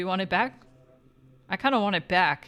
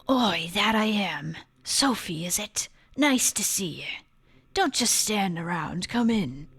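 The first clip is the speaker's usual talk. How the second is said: lightly put-on dwarf voice, measured pace; a light accent for a game's dwarf; Seem. Dwarf greeting Sophie at his door, lightly voiced Seem impression. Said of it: "seam voice from Jak three".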